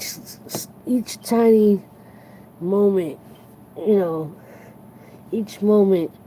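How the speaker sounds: words swell as feelings well up; getting emotional. Real, not acted. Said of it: "why I'm getting emotional".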